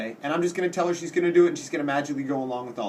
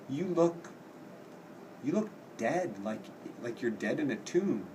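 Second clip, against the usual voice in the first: softer, hushed and ominous; eerie hush; 2 semitones lower, 8 dB quieter than usual. Retold or imitated. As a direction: say it like a creepy premonition. Juliet eerily tells Romeo he looks dead.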